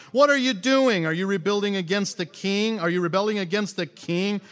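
high, loud, accusing questions; contemptuous scoffing. Acted. Sanballat and allies hearing of the plan, scoffing contemptuously. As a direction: challenge them with open scorn. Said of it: "they scoffed contemptuously".

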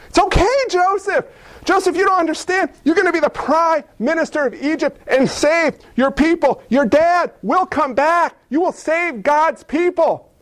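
high, bright comfort; excited encouragement to Joseph; eager reassurance. Pretend. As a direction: lift up a despairing kid.

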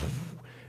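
soft voiceless whooshing blast; imitated explosion. Preacher describing blown-up cars, imitated explosion noise. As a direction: mimic a blast with breath alone.

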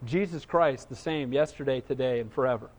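very soft and low scripture recital; hushed reverence. Real, not acted. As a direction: drop right down, quiet and reverent.

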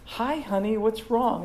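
wife checking on husband. Acted. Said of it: "go up to your husband and you say".

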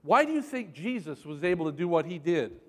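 ordinary talk, nothing marked

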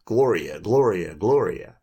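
imitated carol chorus, punched with gusto; hearty, rhythmic retelling of a boy's refrain; real gusto. Young boy caroling at an old man's door, with gusto. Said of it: "chorus full of real gusto".

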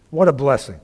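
ordinary talk, nothing marked

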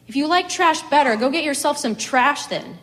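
high, loud, bitter railing. A narrator's reading. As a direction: rail at God in outrage. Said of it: "she railed".

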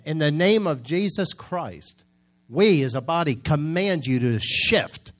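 slow, firm command to the storm; reenacted commanding prayer. Pastor commanding the hurricane to shift, slow and firm. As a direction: declare it slowly with authority. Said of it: "That's the way it was prayed".

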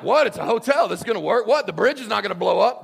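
loud, high, alarmed disbelief; mock panic. Preacher acting his fear at a warning, mock panic. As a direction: blurt it out in hammed-up alarm.

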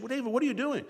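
put-on incredulous king pressing a boy; a hint of an anxious king; imagined Saul. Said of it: "I can just imagine the conversation".

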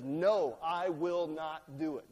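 loud, slow, flat-out no; defiant refusal. Acted. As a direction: slam the door on the request. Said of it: "this air ... of disrespect".

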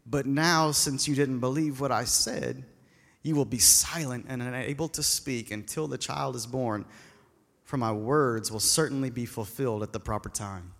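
slow, low, weighty angel voice, lightly voiced; solemn angel Gabriel. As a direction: announce it like a heavenly messenger, unhurried. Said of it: "And then the angel said".

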